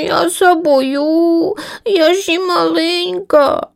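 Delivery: high, very slow, timid little chick; frightened squeak. Acted. Lazy chick Linivka tells mother she's afraid to fly, squeaking. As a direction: squeak it out, small and scared. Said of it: "запіщала Лінивка".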